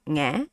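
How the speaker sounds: "nghe" dipping then lifting; questioning tone. Shown as a demonstration. Teacher likening the tone to asking, rising "nghe". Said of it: "It's like you ask a question".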